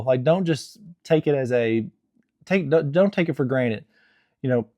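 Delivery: talking through hiccups; speaking with hiccups. Real, not acted. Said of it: "I have the hiccups in every video".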